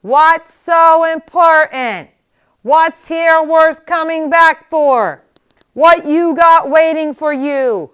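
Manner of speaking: put-on high, loud, slow cranky old man; old Max badgering. A narrator's reading. Miracle Max grilling Inigo, high slow and cranky. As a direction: grill him like a crotchety old healer.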